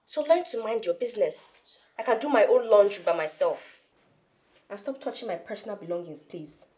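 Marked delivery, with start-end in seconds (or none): 0.1-3.8 irritated outburst; angry. Acted. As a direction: snap at her, annoyed. Daughter snapping at maid.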